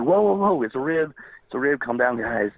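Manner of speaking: imitating calling off armed friends mid-prank; urgent whoa. Wrestler calling off armed friends, retold urgent alarm. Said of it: "I'm like".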